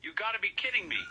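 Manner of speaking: high-pitched, furious disbelief; full-blown rage. Acted. Marshall insists he is speaking to the operator, enraged. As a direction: protest at the top of your range, enraged. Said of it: "he is about to go full-blown".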